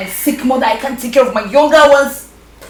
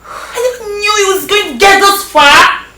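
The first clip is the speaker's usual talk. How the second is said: crying; 5 semitones higher than usual. Acted. Breaking down to Josephine.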